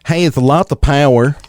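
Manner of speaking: "Has lots of power" in a light Tennessee twang; Tennessee accent. Pretend. Host rereads the ad line to his cohost in a Tennessee accent. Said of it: "in a Tennessee accent".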